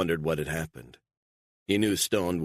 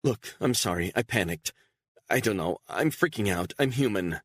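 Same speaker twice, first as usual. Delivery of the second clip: a touch higher, shaky apology through tears; apologize, still panicked and teary; tearful apology; 5 semitones higher than usual. Acted. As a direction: Beatrice apologizing to Stone, tearful. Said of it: "tears in her eyes".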